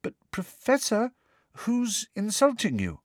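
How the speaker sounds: high, timid schoolgirl; meek, hesitant question to a teacher. A narrator's reading. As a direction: ask gently in a high, cautious voice. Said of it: "asked Parvati timidly".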